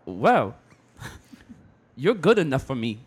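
put-on halting Asian-accented date, pause after well; hesitant mock Asian accent; his Asian accent. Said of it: "you want me to do it in his accent".

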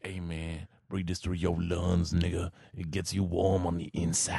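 lightly voiced low, slow street hustler; a hint of a corner dealer offering warmth. Imagining a corner dealer in the cold, lightly voiced, low and slow. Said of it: "some guy on the corner to be like".

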